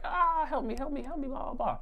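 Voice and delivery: high, hammed-up cries for help; fake screaming for help. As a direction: wail for help like a fake casualty. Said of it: "I start screaming".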